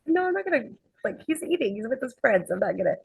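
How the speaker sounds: mock-panicky protest that settles; retold scared refusal. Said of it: "I got all scared".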